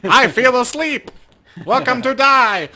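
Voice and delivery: high, loud, slow hammed-up menace; mock ominous voice. Game master joking in a hammed-up ominous voice, slow and loud. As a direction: ham up a spooky line.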